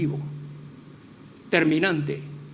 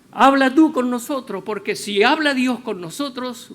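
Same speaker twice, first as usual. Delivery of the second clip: frightened plea; 6 semitones higher, 8 dB louder than usual. Acted. Terrified people beg Moses.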